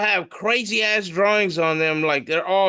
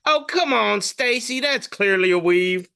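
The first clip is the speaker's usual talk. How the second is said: mock-scornful, starting high and falling; catty hater; 5 semitones higher than usual. Cartoon spider hater correcting jealous Stacy, high catty scoff. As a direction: put her down like a jealous rival. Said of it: "the other one is a hater".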